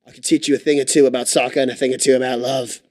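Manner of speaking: hammed-up British footy coach; put-on British accent. Coach offers Lindsay lessons in soccer and love, mock British accent.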